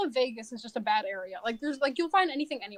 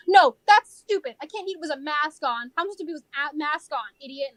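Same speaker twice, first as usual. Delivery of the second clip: mock an irate customer's outburst; imitated customer yelling. Customer to hostess about masks, imitated angry yell. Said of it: "people yell at me".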